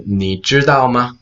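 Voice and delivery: 你知道吗 in four full syllables, ni zhi dao ma; full form. Shown as a demonstration. Introducing another example phrase, 你知道吗 uncontracted. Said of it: "Very quickly".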